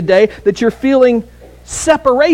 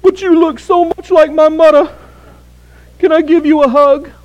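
higher, a hint of a New York accent; a shy stab at a New Yorker asking for a hug; New York accent attempt; 8 semitones higher than usual. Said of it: "I don't know how to do a New York accent".

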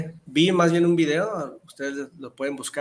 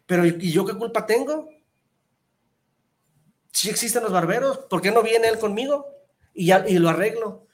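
higher, pleading barber; a barber defending himself, pitched up; barber's defense; 5 semitones higher, 4 dB louder than usual. Retold or imitated. Barber answers customer's accusation, higher and pleading.

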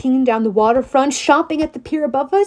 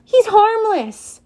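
tender; 10 semitones higher, 4 dB louder, slower than usual. Acted. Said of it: "How could anyone hurt him?".

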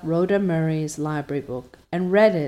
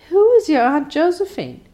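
high, louder startled question; 10 semitones higher, 6 dB louder than usual. Acted. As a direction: ask in alarm, voice jumping up. Anne asks startled.

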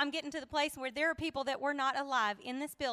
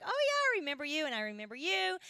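mock recognition; faster than usual. Contestants recognising each other.

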